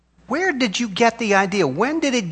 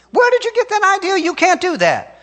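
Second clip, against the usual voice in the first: pitched way up, pressing the question hard; raised preaching cry; 11 semitones higher than usual. Acted. Preacher to congregation, crying out high in challenge.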